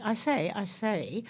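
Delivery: slow, mock English schoolboy I say; lightly imitating a young English accent. Host mimics her childhood English accent to her guest, slowly. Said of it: "apparently I used to say".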